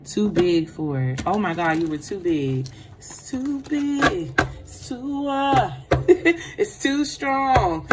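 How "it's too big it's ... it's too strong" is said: high, very slow, drawn out; amazed reaction. Real, not acted. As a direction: marvel at how strong it is. Reacting to a card.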